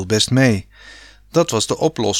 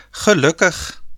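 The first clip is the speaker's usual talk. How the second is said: put-on higher, relieved call of a young girl; girl calling out in relief; relieved girl's cry; 7 semitones higher than usual. A narrator's reading. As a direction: let the relief burst out as the daughter. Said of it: "riep Sanne opgelucht".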